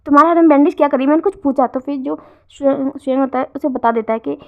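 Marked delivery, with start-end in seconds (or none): 0.1-1.7 louder, very fast insistent repeat; stern demand. Acted. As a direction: press hard for an answer, no more dodging. Repeats question, demanding answer.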